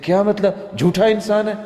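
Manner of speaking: high, loud what-do-you-mean; incredulous retort. Retold or imitated. Scholar retorting to his colleague in loud disbelief.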